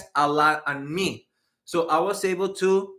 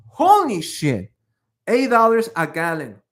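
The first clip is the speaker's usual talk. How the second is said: shocked exclamation; 6 dB louder than usual. Real, not acted. Reacting to a viewer's gas price.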